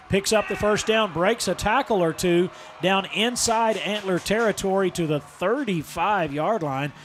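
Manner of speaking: rising football run call; live play-by-play. Real, not acted. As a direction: build with the runner as he breaks free.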